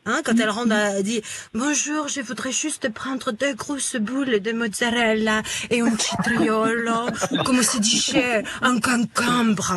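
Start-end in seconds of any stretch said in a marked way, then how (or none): 1.5-9.7 put-on slow, seductive Italian accent; hammed-up Italian accent, lingering on the words; Monica Bellucci. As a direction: draw out the French in a flirty Italian accent. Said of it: "l'accent italien".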